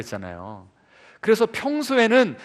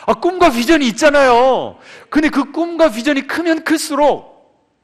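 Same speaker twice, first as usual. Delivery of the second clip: laughing; 8 semitones higher, 8 dB louder than usual. Real, not acted. Laughs while addressing congregation.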